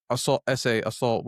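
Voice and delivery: dismissive mock repetition of assault; mocking quote. Commenter mocks accusers, dismissively repeating "assault". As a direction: sneer the word assault like a cliché. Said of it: "gonna be saying".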